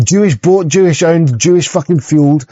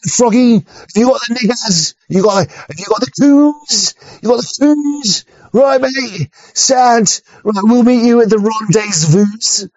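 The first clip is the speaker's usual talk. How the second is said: higher-pitched mock British sailor; British Navy accent; 5 semitones higher than usual. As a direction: hail them in a hammed-up British accent. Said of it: "the British Navy will be like".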